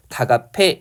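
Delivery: 다갑해 with a g linked into 아: 다가페; representative sound, linked. Shown as a demonstration. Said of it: "최종적으로".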